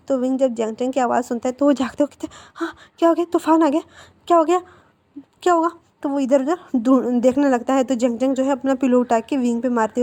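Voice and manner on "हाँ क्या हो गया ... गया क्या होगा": high, louder flustered questions; startled waking. Acted. Boy jolted awake asks his friend what happened: high flustered alarm. Woken suddenly, confused.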